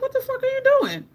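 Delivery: very high indignant squeal; high-voiced, startled what-are-you-up-to; incredulous protest. Replays startled confrontation.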